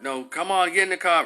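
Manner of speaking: imitated police command; impatient cop. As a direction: boss a child along as an officer. Acts out cop ordering the child.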